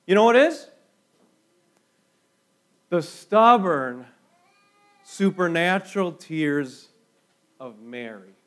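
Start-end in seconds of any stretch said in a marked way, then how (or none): 2.9-6.9 stubborn drawn out slowly and leaned on; slow stressed stubborn. Real, not acted. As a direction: lean on stubborn, then supernatural tears. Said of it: "And I do mean to say stubborn".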